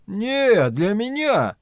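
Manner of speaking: high, lilting tenderness; tender. A narrator's reading. Flagg claiming Lloyd's deed as his own, tenderly. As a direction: coo it to a loyal servant. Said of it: "В голосе Флэга слышалась нежность".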